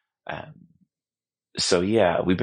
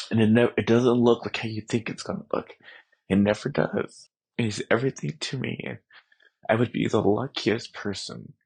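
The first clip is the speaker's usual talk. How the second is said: crying; 3 semitones higher than usual. Real, not acted. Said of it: "I'm so sorry, I'm crying".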